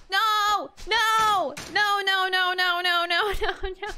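rising protest, no no no. Real, not acted. Loud denial of plot.

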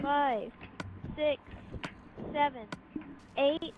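loud countdown. Real, not acted. Host counting down grace period.

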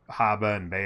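"haba and bea" with Australian dropped r's; Aussie accent. Shown as a demonstration. Streamer showing words that sound perfect, Australian accent. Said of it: "certain words you can say that sound perfect".

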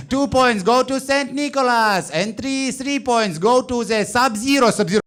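high, slow broken-English Eurovision announcement; Norwegian jury announcer. Retold or imitated. Norway's Eurovision jury announces points, high, slow and cheery.

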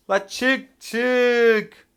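loud, urgent call to get out; real frantic shout. Real, not acted. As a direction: yell at a teammate to escape. Calling teammate out of danger.

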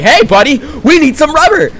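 a high, loud, mocking voice of the bosses. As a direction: mimic them high and bossy. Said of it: "they're like".

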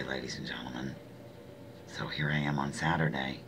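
quiet whisper to the viewers. Real, not acted. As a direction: save the sore voice and whisper it. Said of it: "talking like".

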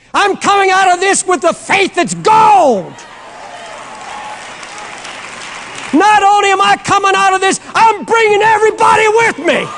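preacher screaming triumph over the devil. Acted. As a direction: roar your victory at the devil. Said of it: "Forgive me for screaming".

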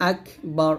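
আকবার slowly as "ak... bar"; correct breathed k. Shown as a demonstration. Teacher showing it correctly after the warning, airy k in আকবার. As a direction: stop on k with air, then finish আকবার. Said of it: "বাতাস বের করবেন".

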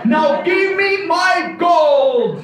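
furious demand. Acted. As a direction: lose your patience. Balaram's anger finally breaks.

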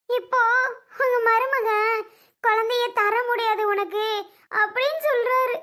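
upset, weeping appeal; crying plea. Acted. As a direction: plead through tears as to a father. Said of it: "ஏன் அழுதுட்டு இருக்க?".

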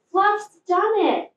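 cheering shout. A narrator's reading. Small Fox cheers Fluff's success, joyful shout. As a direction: cheer for your friend. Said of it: "shouted Small Fox".

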